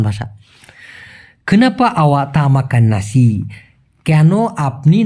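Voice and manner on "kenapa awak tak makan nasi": very slow, each word separate; Malay sentence said very slowly; slow Malay demo. Shown as a demonstration. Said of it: "teaching Malay sentence slowly".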